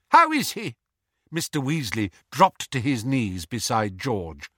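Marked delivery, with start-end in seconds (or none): 0.1-0.8 high, loud, urgent question; tearful alarm. A narrator's reading. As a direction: ask desperately, on the edge of sobs. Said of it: "sobbed Missus Weasley".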